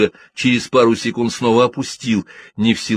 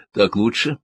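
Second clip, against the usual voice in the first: solicitous; 2 semitones higher than usual. A narrator's reading. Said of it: "заботливо поинтересовалась Шиван".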